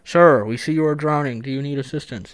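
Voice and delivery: measured announcement to a man in the water; mock microphone announcement. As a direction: imitate a rescuer on a helicopter mic. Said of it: "He goes with the microphone".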